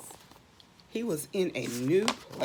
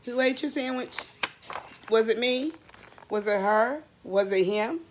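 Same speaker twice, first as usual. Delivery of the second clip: playful guessing game. Acted. Teasing the children about who ate it. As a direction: tease the kids with guesses.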